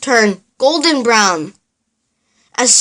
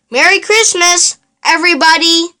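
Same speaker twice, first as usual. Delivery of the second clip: higher, cheerful call; happy shout; 4 semitones higher than usual. Acted. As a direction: call out a merry greeting. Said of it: "Elmo shouted happily".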